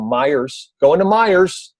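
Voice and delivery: "Myers" with an S on the end; relatives' added S. Retold or imitated. Coach imitating older relatives, "Myers" with added S. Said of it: "older relatives, and they say".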